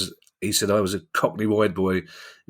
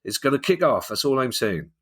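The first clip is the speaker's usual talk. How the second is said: higher-pitched mock sitcom Gloucester accent; a badly done Gloucester accent, pitched up; the speaker in a Gloucester accent; 6 semitones higher than usual. The speaker warns Lukaku about badgers, terrible Gloucester accent. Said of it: "I know it's a terrible accent".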